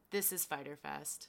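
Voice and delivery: whispered reveal. Retold or imitated. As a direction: breathe it out softly.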